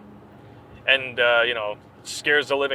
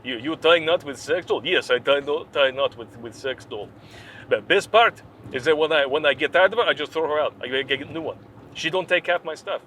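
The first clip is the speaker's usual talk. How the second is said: put-on Russian accent. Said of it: "I gotta do a Russian accent".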